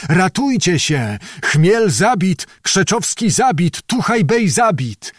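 high, slow, drawn-out shouted alarm; piercing cry. Acted. A voice under the house screams the leaders are dead, high and slow. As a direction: wail the terrible news to the whole square. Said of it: "głos przeraźliwy tuż pod domem począł krzyczeć".

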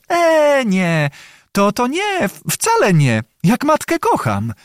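high, hesitant, smiling denial; coyly flustered. A narrator's reading. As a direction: stammer sweetly, playing embarrassed. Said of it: "niby zmieszana, odpowiedziała z uśmiechem".

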